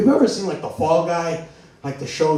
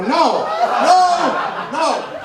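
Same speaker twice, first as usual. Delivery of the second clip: higher, drawn-out embarrassed no; mortified protest; 5 semitones higher, much slower than usual. Retold or imitated. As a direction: beg Dad to stop, embarrassed. Mortified son protesting dad again.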